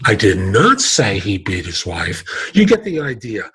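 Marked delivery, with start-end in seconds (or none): 0.1-2.2 "not" punched hard; stress on NOT. Shown as a demonstration. Trainer stressing "not" to change meaning. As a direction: lean on "not". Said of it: "and versus".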